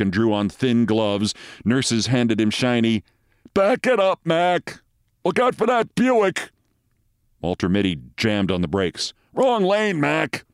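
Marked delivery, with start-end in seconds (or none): 3.5-6.5 high-pitched holler of a parking attendant; calling out. A narrator's reading. Parking attendant warns a daydreaming driver, calling out. 9.3-10.4 high-pitched, brusque attendant; parking attendant. A narrator's reading. Parking lot attendant corrects a driver, calling out. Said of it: "said the parking lot attendant".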